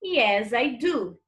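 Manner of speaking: slow, clear short answer; teacher slowly models the answer. Shown as a demonstration. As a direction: lay out each word for the class. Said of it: "Se tem".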